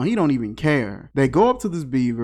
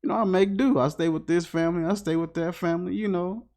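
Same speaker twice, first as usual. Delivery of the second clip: homeless dog; 6 dB quieter, faster than usual. Acted. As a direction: play the stray understated, soft and casual. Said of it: "telling her his stories, like".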